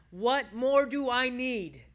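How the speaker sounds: loud, high, drawn-out declaration; slow, ringing rhetorical question. Shown as a demonstration. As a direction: proclaim the question slowly to the room. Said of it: "say it out loud".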